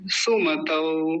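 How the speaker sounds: slow सुमतौ ending in "au"; au vowel. Shown as a demonstration. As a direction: model सुमतौ as "su-ma-tau". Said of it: "ऐसे".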